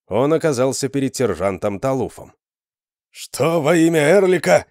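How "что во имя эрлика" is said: startled shout. Acted. Startled guard at the gate.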